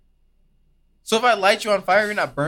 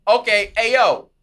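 louder mock-worried asker; panicked member of the public; 4 semitones higher, 5 dB louder than usual. Mocking a scared caller asking the CDC, louder. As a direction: play a frantic citizen asking the CDC. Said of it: "They're like".

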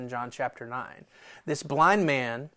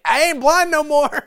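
exultant blind man; 13 semitones higher, 10 dB louder than usual. Acted. Healed blind man voiced exultantly.

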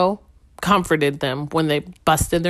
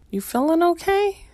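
gentle mom voice; 11 semitones higher than usual. Retold or imitated. Mom asks sick toddler.

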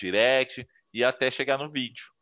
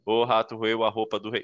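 mild monotone recital of a tongue twister; a lightly voiced dull reader reciting; dull reading aloud. Shown as a demonstration. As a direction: read it flat and boring, like a chore. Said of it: "Tu vai ver que tá chato".

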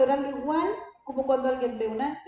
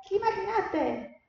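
imaginary God who scolds, lightly hammed up with a laugh; mock stern God. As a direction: play a petty, offended God, exaggerated. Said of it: "¿O tú crees que Dios es como".

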